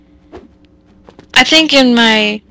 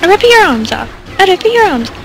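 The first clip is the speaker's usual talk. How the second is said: mock monster threat; 8 semitones higher than usual.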